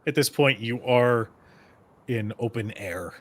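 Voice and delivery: measured game master narration; scene setting. Acted. Game master describing the cold open air to players, scene setting. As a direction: set the scene in deliberate phrases.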